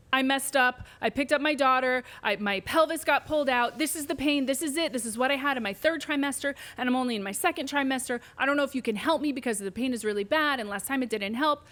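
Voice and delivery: worked-up retelling of a patient's panic; retold spiraling panic. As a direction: let the worries tumble out, mildly panicked. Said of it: "Spiraling down".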